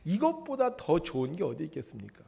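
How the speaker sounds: normal talking voice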